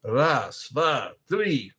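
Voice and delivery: separate, crisp Russian numbers; Russian counting. Shown as a demonstration. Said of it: "That's how you say it in Russian".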